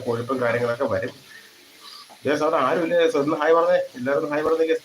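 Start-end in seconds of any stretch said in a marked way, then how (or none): 2.3-4.8 bright coaxing call for viewers to say hi; eager call to viewers. Real, not acted. Live cooking host urging silent viewers to say hi, eager coaxing call. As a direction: cheer the empty chat into saying hi.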